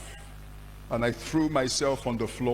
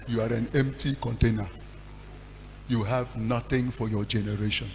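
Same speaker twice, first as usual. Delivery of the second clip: still small voice of God. Retold or imitated. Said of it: "the still small voice of God".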